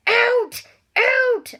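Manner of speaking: high, loud bellow; shouting in a rage; furious shout. Acted. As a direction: bellow him out of the room. Uncle Vernon throws Harry out.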